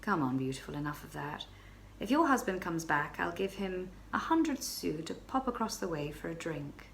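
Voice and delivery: calm reply. Acted. Stranger calmly waving off her husband's return, low. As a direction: brush her off, lazily calm. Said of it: "he replied calmly".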